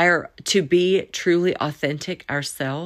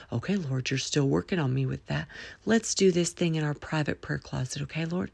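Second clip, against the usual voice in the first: private prayer; 2 semitones lower, 7 dB quieter than usual. Acted.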